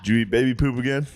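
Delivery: laughing mock accusation.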